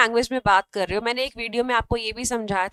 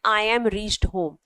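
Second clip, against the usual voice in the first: slow wrong example; 2 semitones lower, much slower than usual. Shown as a demonstration. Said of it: "which is wrong।".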